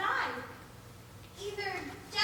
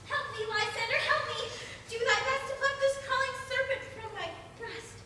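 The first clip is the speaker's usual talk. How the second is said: frightened cry; 6 semitones higher, 3 dB louder than usual. Acted. Hermia wakes from nightmare crying out.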